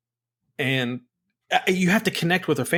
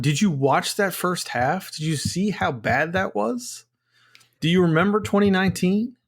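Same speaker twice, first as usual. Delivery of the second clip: incredulous; 5 semitones higher than usual. Retold or imitated. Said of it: "It's like".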